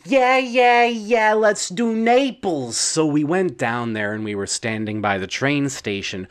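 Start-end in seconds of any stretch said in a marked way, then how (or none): 0.1-2.8 lightly voiced wife, high and eager; a hint of the eager second wife; bright quick yeahs from his wife; Frangeline's voice. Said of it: "Frangeline said".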